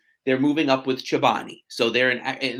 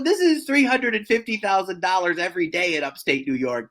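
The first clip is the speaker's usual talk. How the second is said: retold astonishment; 4 semitones higher than usual. Telling the host about house hunting, astonished.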